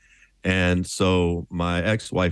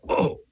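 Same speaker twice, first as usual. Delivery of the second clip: winded groan. Retold or imitated. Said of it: "it crumpled me for a second".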